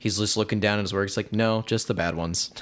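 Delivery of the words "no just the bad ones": slow, deadpan quoted reply; very straight. Retold or imitated. Sound man answering while busy working, very straight. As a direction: say it matter-of-factly, attention on your work. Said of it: "Just very straight".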